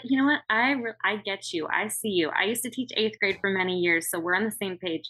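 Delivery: bright, sweet, talking down with a smile; sugary condescending comeback. Retold or imitated. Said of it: "I'll be like".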